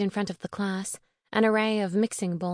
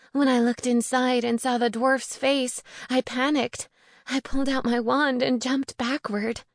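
higher-pitched voice for a distressed friend; lightly voiced upset witch, pitched up; distressed young witch; 5 semitones higher than usual. Sophie explains how she found the coffin, higher, earnest voice.

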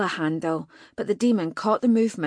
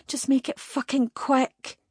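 escalating defiance, pushed higher; defiant outburst; 7 semitones higher than usual. Acted. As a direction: spit the demand out, pitched up. Captive defies demon, escalating.

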